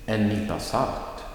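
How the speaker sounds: salt lifted above En nypa; stress on salt. Shown as a demonstration. Teacher models an example phrase, stress on salt. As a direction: lean on the last word, salt. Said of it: "the stress is on the last word".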